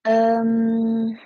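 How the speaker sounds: ordinary talk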